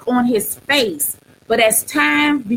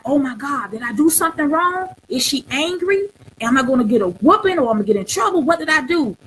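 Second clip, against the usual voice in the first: put-on frightened boy; 3 semitones higher, faster than usual. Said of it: "he was looking like".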